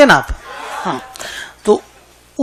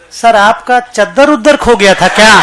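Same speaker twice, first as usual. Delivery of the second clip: laughing punchline. Real, not acted. Punchline of his own joke.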